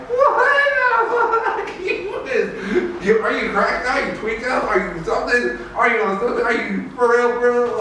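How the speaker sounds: high, laughing disbelief; what the hell, are you serious; shrieking mock disbelief; incredulous outburst. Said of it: "I'm like".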